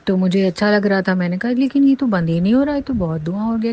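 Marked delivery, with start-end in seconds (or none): 1.5-3.7 alarmed surprise. Retold or imitated. Retells own alarm at smoke.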